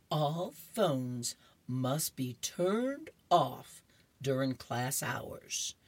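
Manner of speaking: slow, measured teacher voice; teacher's announcement. Acted. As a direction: lay down the rule word by slow word. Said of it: "She puts her finger up and said".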